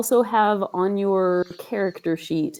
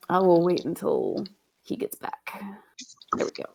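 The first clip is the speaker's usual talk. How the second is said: whispering; 3 dB quieter than usual. Real, not acted. GM whispers aside.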